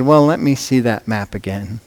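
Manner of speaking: weary sigh of a genie. Acted. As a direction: let it out with a resigned sigh. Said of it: "with a sigh".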